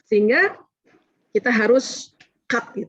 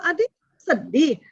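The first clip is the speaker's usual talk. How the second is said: gentle validating; 4 semitones higher, slower than usual. Shown as a demonstration. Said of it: "itu yang dilatih".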